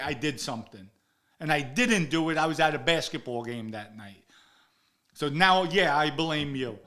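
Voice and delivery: heated, emphatic telling-off; retold angry accusation. Accusing his friend of talking out of turn, angrily retold.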